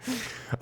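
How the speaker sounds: high staccato villainous laugh; put-on cackle. After joking about endless voices, high cackling laugh. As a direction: let out a long high cackle.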